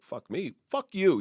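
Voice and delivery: sudden high, loud snap back; mock yelled retort. Cop imitating his own angry reaction to being cursed at, sudden yell. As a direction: fire it back at him.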